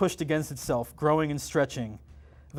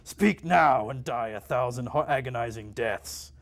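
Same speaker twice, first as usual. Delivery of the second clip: demon voice; 3 semitones lower than usual. Acted. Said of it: "it screamed".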